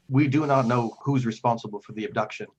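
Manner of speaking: lightly voiced grave cleric, pausing heavily; weighty, formal plea with emphatic phrase openings; solemn Father figure. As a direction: confide painful news with measured earnestness. Game master voices troubled Father Geno.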